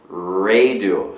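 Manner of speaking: "radio" starting on a growled English R; low "rrray-dio", R held; dog-like English R. Shown as a demonstration. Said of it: "tem um som meio que de cachorro".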